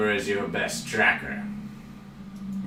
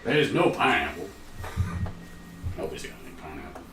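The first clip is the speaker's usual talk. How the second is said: put-on southern accent; 3 semitones lower, 5 dB quieter, faster than usual. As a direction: say it like a laid-back Southerner. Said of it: "weird word to say with a southern accent".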